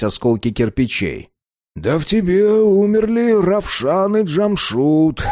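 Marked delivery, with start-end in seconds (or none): 1.8-5.2 slow, sour mockery. A narrator's reading. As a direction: say it sourly, unimpressed. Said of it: "кисло сказал Шмелёв".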